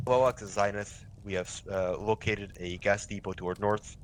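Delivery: robotic radio call. Shown as a demonstration. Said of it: "better way to do that would be".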